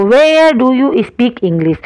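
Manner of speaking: very slow, word-by-word English sentence; slow dictation. Shown as a demonstration. Teacher to class, dictating the question word by word, very slow. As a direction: spell it out slowly for students. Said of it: "teacher dictating sentence".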